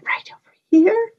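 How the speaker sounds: whisper. Pretend. Teacher whispering to children.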